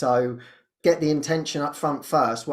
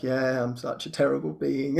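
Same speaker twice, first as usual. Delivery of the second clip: softer gloomy self-pity; mock wallowing; 3 semitones lower, 6 dB quieter than usual. Believing own victim story, mock self-pity said softly. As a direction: wallow in it, quietly, half-joking.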